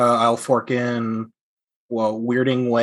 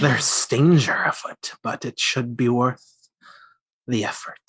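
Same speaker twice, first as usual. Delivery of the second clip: laughing. Acted. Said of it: "I don't like it".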